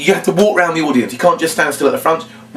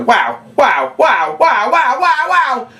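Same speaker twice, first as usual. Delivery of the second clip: wows climbing much higher into a shouted cry; praising the birthday boy's big score; building amazement; much slower than usual. Shown as a demonstration. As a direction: build to over-the-top astonishment. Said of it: "My goodness, yellow".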